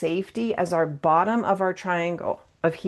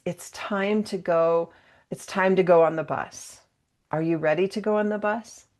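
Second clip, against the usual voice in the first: easy, unhurried, asking not telling; calm, patient heads-up; gentle invitation. Shown as a demonstration. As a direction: give them time to get ready. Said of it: "That's empowerment".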